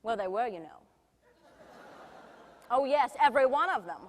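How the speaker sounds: lightly voiced showbiz star reminiscing; theatrical, self-mocking raconteur; a famous singer. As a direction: tell wry backstage stories to an audience. A singer's monologue, after plain introduction.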